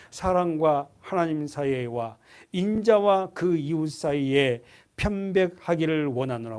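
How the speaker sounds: slow, even reading of the verse; slow scripture reading. Shown as a demonstration. Preacher reading the verse to the congregation slowly. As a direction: read it out steadily, word by word. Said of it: "이십일 절에 한 번 더 동그라미 쳐놓고 보세요".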